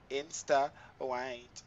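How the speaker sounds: Insta white drawn out very slowly. Shown as a demonstration.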